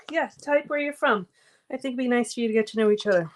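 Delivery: catching breath between words. Real, not acted. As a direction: still panting a little, fast. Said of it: "As I catch my breath".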